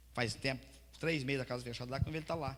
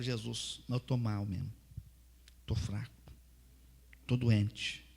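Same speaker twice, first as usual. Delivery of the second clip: humble prayer; 4 semitones lower than usual. Shown as a demonstration. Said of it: "o que que é orar".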